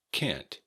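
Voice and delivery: "can't" cut short by a T, pitch falling; final T. Shown as a demonstration. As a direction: end "can't" on a clear T after the N. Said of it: "difficulty with the T at the end".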